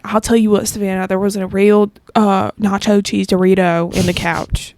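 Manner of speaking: imitated Southern dad accent. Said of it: "thickest Southern accent ever".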